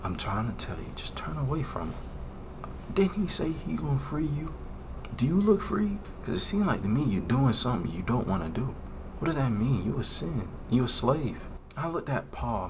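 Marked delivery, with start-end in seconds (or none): 0.0-8.7 whispered temptation. Retold or imitated. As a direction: tempt him in a whisper, then taunt.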